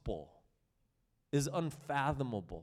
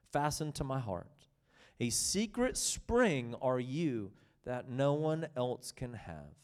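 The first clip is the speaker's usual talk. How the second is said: scripture reading. Acted. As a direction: read it as the bridegroom's devotion. Reads Song of Songs text.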